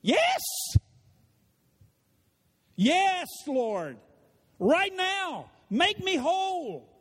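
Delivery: high, loud eager yes; sick man eagerly answering Jesus. Acted. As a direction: leap at the offer, crying out yes. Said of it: "What should have been the answer?".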